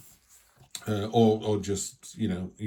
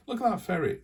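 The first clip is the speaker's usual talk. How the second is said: delighted; 12 semitones higher than usual. Real, not acted. Delighted pointing at tarot card.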